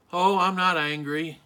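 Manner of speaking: firm denial with anger underneath; angry denial. Acted. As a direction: insist on it, betraying a touch of anger. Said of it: "even as we say we're not angry, we are angry".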